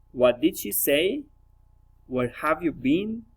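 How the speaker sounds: polite questions "What did she say?" and "Where have you been?", lifting at the ends; interested, polite question tune; friendly rising intonation. Shown as a demonstration. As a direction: rise on "say" and "been". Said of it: "Friendly interest, politeness, rising intonation".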